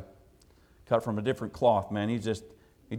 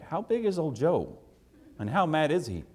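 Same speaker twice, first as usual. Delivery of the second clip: mildly nervous questioning, pitched up; 4 semitones higher than usual. Retold or imitated. Visitor asking about angry husband, nervous. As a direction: act out a worried aside. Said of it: "I started getting nervous".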